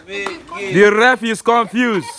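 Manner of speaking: slow commentary, stretching every word; slow, drawn-out. Shown as a demonstration. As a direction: drag it out for effect. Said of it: "repeated slower".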